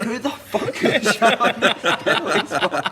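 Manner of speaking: high, slow, loud mock outrage; outraged groundsman. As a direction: act out an appalled groundsman, laughing through it. Groundsman's outraged discovery, acted out.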